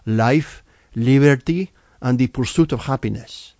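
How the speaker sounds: imitating Hispanic accent. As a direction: quiz her in a strong Hispanic accent, "happiness" sounding like japonés. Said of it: "I'll try to imitate it".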